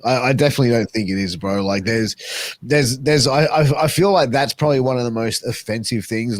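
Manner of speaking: usual speaking voice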